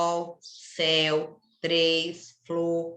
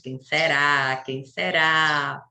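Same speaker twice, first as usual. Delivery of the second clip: teasing mystery; 5 semitones lower, much slower than usual. Real, not acted. Teasing about tomorrow's birthdays.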